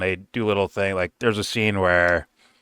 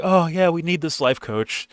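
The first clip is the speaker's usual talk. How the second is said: wife; 9 semitones higher than usual. Retold or imitated. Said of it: "the wife is like".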